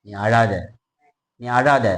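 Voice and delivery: low, gently consoling voice; comforting words. Acted. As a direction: hush someone's weeping, pitched low. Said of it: "ஆறுதலான வார்த்தை வருது".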